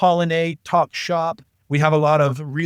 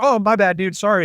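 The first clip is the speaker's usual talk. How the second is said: surprised; 5 semitones higher than usual. Retold or imitated. Walked in on naked friend.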